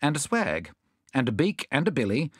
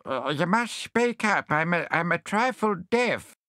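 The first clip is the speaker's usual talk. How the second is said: higher, slow doddery voice; deaf hedgehog; 7 semitones higher, slower than usual. Acted. Deaf hedgehog asking the visitors to speak up. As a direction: plead for them to speak up.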